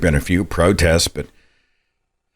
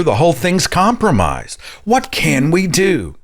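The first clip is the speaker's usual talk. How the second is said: exasperated despair; 11 semitones higher than usual. Real, not acted. Host despairing, pitch up.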